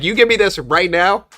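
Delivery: dictator. Retold or imitated. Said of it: "I'm a dictator with A I".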